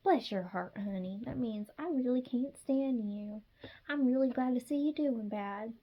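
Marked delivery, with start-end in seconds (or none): 0.0-1.2 Southern saying. Pretend. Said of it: "In Southern language".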